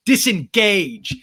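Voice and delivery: very slow, loud drawn-out order; mock Lala command. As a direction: stretch the word out imperiously. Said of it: "Lala goes".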